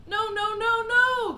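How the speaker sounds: high, loud, rising alarm; crying out. Acted. Wonka shouts to stop Mike, loud and high. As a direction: stop him with every no. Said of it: "cried Mister Wonka".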